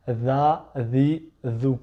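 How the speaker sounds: "dha" with the tongue between the teeth, like English th; "dha, dhi, dhu" voiced th, tongue between teeth; th sound. Shown as a demonstration. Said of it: "mais avec la langue entre les dents".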